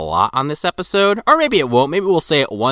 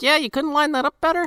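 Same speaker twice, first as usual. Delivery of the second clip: sarcastic; 13 semitones higher than usual. Retold or imitated. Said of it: "And I'm just like".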